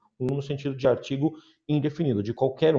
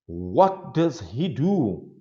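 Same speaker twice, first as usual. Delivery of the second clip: asking voice; much slower than usual. Shown as a demonstration. Teacher asking model question.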